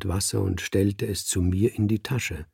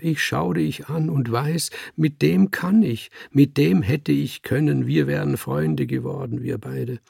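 schluchzend; 5 semitones higher than usual. Acted. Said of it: "schluchzte er".

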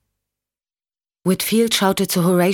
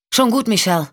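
mildly raised call, higher; 6 semitones higher than usual. Acted. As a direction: call out to reassure her, held back. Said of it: "rief Sean".

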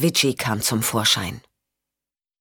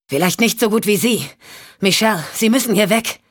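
higher, urgent warning; Champ, urgent; 4 semitones higher than usual. Acted. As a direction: tell her to get out now. Champ warns Michelle to leave.

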